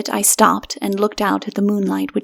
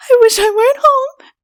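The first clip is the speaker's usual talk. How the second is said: much higher, tearful sob; sobbing; 6 dB louder than usual. A narrator's reading. Frightened woman bursting into tears, sobbing. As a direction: cry it out, wishing for home. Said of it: "she sobbed".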